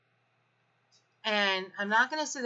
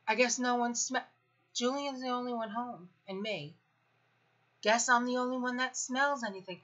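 higher, snide sarcastic muttering; 5 semitones higher than usual. Retold or imitated. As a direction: needle them with sarcasm. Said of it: "And I'm like".

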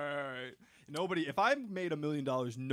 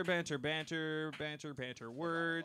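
fading banter; 6 dB quieter, slower than usual. Pretend. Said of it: "more banter".

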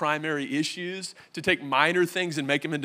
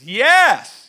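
much higher and louder, giddy yes; eager yes; 7 semitones higher, 13 dB louder than usual. Retold or imitated. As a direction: cave in happily. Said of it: "Daddy says".

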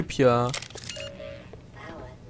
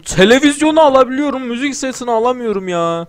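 higher and louder complaint; frustrated outburst; 8 semitones higher, 7 dB louder than usual. Real, not acted. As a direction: complain loudly in disbelief. Frustrated with game item. (eşyayı alamayan oyuncu, yüksek sesli sitem)

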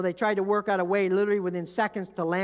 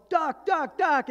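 raised, high repeated call; urgent warning cry; 8 semitones higher, 5 dB louder, slower than usual. Acted. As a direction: act out a crew alerting the cabin. Acts crew warning before crash.

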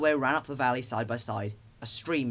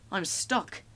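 dismayed cry; 6 semitones higher than usual. A narrator's reading. Thomas stuck in snow.

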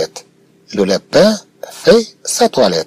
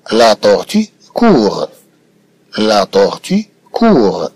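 slow model reading; much slower than usual. Shown as a demonstration. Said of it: "teacher models slow reading".

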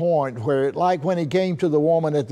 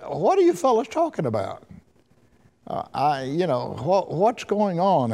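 higher, faster, curious questioning voice of Jesus; voicing the Lord; 4 semitones higher than usual. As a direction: play innocent curiosity, quick and raised. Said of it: "the Lord says".

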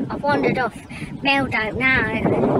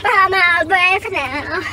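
higher, louder snooty Mad Mel complaining about the holiday; 10 semitones higher, 5 dB louder than usual. Acted. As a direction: play the stuck-up runaway sneering at the cheap holiday. Mad Mel character monologue.

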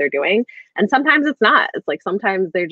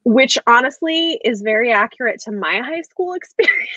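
laughing; 5 semitones higher than usual. Real, not acted. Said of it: "laughing through remark".

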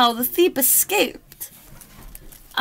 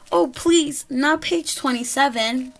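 begging pig. Acted. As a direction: plead as the doomed pig.

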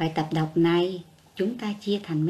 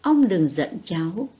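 gentle compassionate reading. A narrator's reading. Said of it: "giọng nhẹ nhàng, thương cảm".

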